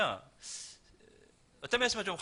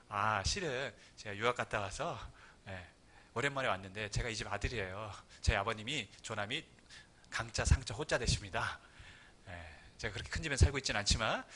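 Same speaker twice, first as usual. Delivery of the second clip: soft, lower, politely humble explanation; polite greeting; 7 semitones lower, 6 dB quieter than usual. Pretend. Polite son introducing himself to the caretaker, soft and humble. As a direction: gently introduce yourself, bowing with words. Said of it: "정중하게 인사를 하겠죠".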